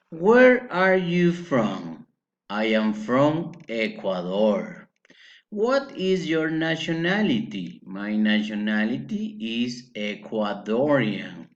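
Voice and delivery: slow, deliberate language-teacher delivery; slow model dialogue. Shown as a demonstration. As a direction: model each question and answer slowly. Teacher models questions and answers.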